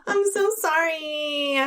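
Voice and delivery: high, drawn-out apology after laughing; giggly slow sorry; helpless apology. Real, not acted. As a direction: stretch it out, recovering from giggles. Apologizing through uncontrollable giggles.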